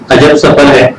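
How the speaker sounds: measured, dignified poem reading; stately nazm recitation. Acted. (باوقار نظم خوانی)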